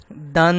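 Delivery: دن with a long held n; lengthened nasal ending. Shown as a demonstration. Teacher shows students the tanween, ن in دن held long. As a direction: hum on the final ن of دن. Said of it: "لمبا ہونا ہے".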